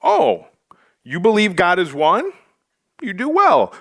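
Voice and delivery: mock-impressed, dripping with sarcasm; sarcastic Oh you do well; sarcastic James. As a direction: read it like a sarcastic pat on the head. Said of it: "I read it like I would say it".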